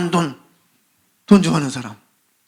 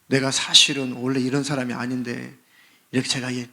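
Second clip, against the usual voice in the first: mock polite explanation; 4 semitones lower, 3 dB quieter than usual. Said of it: "그렇게 설명하고 소리 지르나요?".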